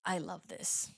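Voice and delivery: very soft, half-whispered admission; hushed confession. Acted. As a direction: confess it under your breath. Sheepish answer to imagined critic.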